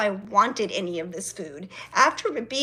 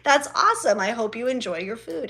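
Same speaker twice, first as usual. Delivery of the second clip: overly polite praise; 2 semitones higher than usual. Retold or imitated. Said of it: "I laugh and I say".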